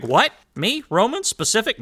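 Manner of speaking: host feigning shock at being called specific; mock surprise. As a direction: pretend to be shocked.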